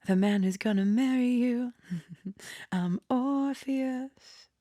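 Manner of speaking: hammed-up Orpheus. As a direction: stretch out I'm Orpheus like a proud suitor. Voicing Orpheus's bold introduction.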